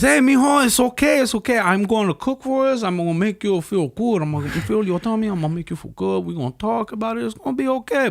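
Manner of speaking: high, falsetto doting mother voice; mom voice. Retold or imitated. Comedian voicing a Mexican mom comforting her son. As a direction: coo it up high like a fussing mom.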